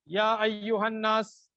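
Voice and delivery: یا ایھا الناس recited slowly, stopping after الناس; separate, unjoined reading; read separately. Shown as a demonstration. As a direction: pause after الناس, no joining to the next word. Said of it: "الگ پڑھ دیا".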